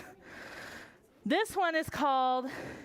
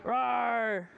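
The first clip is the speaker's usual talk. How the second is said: dragon roar. Shown as a demonstration. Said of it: "my dragon".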